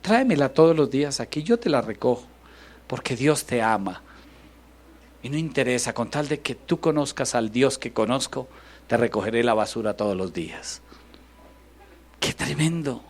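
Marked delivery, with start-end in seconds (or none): 0.0-10.8 loving reassurance to neighbor. Retold or imitated. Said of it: "usted pueda con amor decir".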